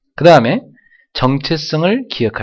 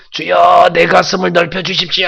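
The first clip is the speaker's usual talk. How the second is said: raised, pleading cry to God; imploring prayer, slightly raised; fervent prayer; 5 semitones higher than usual. Shown as a demonstration. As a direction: plead with the Lord as if tearing your heart open. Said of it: "하면서 가슴을 찢으셔야 됩니다".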